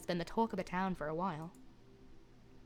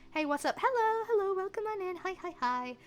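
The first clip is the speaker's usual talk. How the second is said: excited greeting; 11 semitones higher than usual. Acted. Greeting the mage character.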